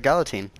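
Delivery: put-on Galatine with a light middle and "teen" ending; own pronunciation. Shown as a demonstration. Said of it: "I say it like".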